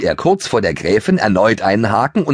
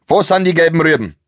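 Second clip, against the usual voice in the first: panting; 9 semitones higher, 3 dB louder than usual. Acted. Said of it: "Keuchte Toni".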